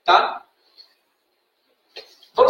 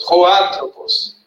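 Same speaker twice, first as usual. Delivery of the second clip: Roantropos drawn out very slowly, each syllable separate; teacher sounding out Roantropos slowly; 2 semitones lower, much slower than usual. Shown as a demonstration. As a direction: spell out Roantropos slowly for the class. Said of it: "então, ro".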